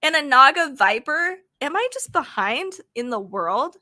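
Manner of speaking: can this really be a pepper, rising at the end; baffled question. Real, not acted. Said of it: "I've never even heard of that before".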